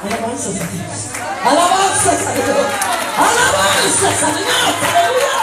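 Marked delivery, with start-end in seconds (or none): 1.4-5.4 high, loud cry of praise; praise shout. Real, not acted. Preacher rousing the congregation to praise, exultant shout. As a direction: shout it out, rising higher with each call.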